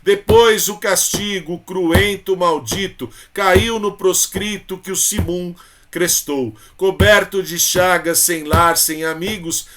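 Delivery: mournful, measured declaiming; poem recitation. Shown as a demonstration. Teacher reciting the poem for students, mournful declaiming. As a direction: read it as a lament of a captive.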